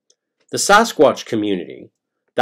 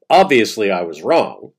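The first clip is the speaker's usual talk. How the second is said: a louder, lightly voiced Todd admitting he was wrong; quoting Todd; 6 dB louder than usual. Narrator reads Todd's quote louder, half in his voice. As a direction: read the quote out louder, as Todd's own confession.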